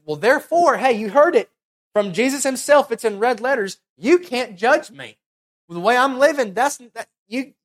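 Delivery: hammed-up indignant sinner brushing off correction; mock self-justifier. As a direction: play the defensive churchgoer who can't be judged. Mocking a self-justifying listener.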